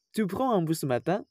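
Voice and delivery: statement word order turned question by a rise on "matin"; rising question intonation. Shown as a demonstration. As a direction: lift the pitch at the end, on "matin". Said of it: "Contoh pertanyaan yang menggunakan intonasi naik".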